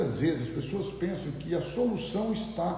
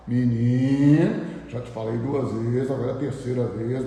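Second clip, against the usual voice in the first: parent yelling; 3 semitones lower, 7 dB louder than usual. Retold or imitated. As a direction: bellow the boy's name, then count the warnings. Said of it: "você disser pro seu filho assim".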